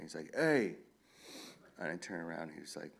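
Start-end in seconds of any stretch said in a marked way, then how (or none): 0.3-0.7 retold call-out, pitched up and louder; imitated yell. High schooler yelling out to the author at his car, imitated yell. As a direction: call out like a kid hailing someone. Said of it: "one of them yells out to me".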